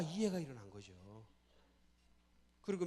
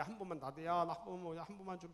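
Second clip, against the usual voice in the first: retold begging; 3 semitones higher than usual. Boy begging friend for candy, acted pleading. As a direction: plead like a kid wanting a turn. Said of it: "애걸했대요".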